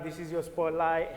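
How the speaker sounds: slow hype host intro; announcer voice. Acted. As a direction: present it like a TV host. Host hyping on camera.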